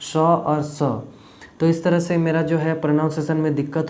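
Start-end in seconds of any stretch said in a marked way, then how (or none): 0.0-1.0 "स और स" with a plain dental s, then the retroflex sh; two s sounds. Shown as a demonstration. Singer explaining the two s sounds to his viewers, careful and slow. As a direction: say "स और स", dental s first, sh second. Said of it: "अलग pronunciation होता है".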